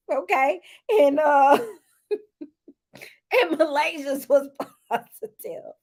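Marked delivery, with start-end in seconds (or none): 2.1-5.7 giggling through the word positive; laughing. Real, not acted. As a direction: laugh it out slowly. Laughing while repeating verdict.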